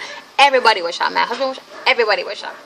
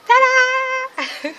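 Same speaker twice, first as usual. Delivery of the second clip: much higher, laughing flourish; big laughing ta-da; triumphant ta-da; 4 dB louder than usual. Real, not acted. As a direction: present the ending with a laughing cheer. Triumphant end of birth story.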